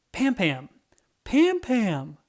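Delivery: calling a friend's name, rising to a shout. Acted. Weasel calls excitedly to his friend Pam Pam, shouting. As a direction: shout for her across the street.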